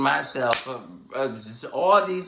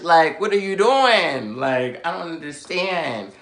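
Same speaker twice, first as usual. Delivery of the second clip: exasperated; 3 semitones higher, 3 dB louder than usual. Retold or imitated. Acted telling-off of Todd.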